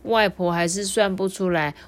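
lively picture-book reading; story narration for children. A narrator's reading. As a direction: tell it to small listeners with clear, lifted phrases.

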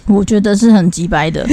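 normal talking voice

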